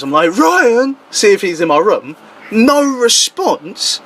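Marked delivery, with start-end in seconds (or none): 0.4-1.0 retold shout upstairs. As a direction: call a name up the stairs, held back in volume. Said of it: "I shout up the stairs".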